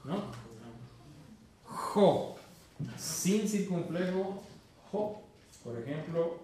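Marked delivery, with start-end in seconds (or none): 1.6-2.4 "Jo" rasped hard, unvoiced and loud; harsh throat sound. Shown as a demonstration. Teacher drills the ĥ sound for the student, loud and rasped. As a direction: rasp "Jo" from the back of the throat. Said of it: "Con circunflejo es mexicana".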